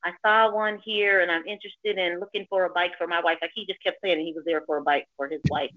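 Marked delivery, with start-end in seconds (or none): 0.0-3.4 mildly put-on phone chat; a touch staged, as if on a call; fake phone talk. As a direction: imitate a man faking a phone conversation. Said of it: "this is what he's saying in his phone".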